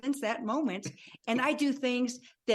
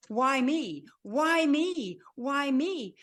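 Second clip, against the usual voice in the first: retold crying yell; 4 semitones higher, much slower than usual. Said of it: "screaming and crying".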